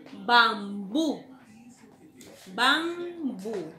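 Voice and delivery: "tiempo" agudo y fuerte, bien separado; dictado marcado. Shown as a demonstration. ("tiempo" dictado con fuerza)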